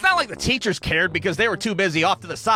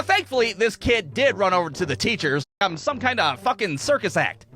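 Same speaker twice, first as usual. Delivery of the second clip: ordinary talk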